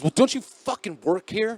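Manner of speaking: high, snippy tweaker retort; mock tweaker scolding the cashier. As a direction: snap it at the cashier in his voice. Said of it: "he goes".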